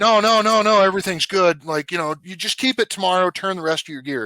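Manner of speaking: mock-panicked boss smoothing things over; a hammed-up flustered chief calming him down; imitating placating chief.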